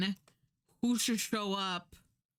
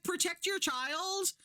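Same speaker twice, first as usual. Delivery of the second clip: slow, higher, spelled-out scolding; slow, pointed mock exasperation; exasperated; 11 semitones higher than usual. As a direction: lay it out like she's dense. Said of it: "And I'm like".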